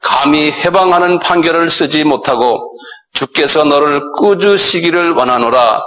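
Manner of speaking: slow, measured reading of the verse; slow formal scripture recitation. Shown as a demonstration. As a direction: read the Bible verse deliberately. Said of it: "그 구절을 그대로 읽으면".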